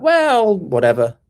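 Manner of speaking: mock indifference, shrugging it off; shrugging Trump. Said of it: "Is Trump just gonna be like".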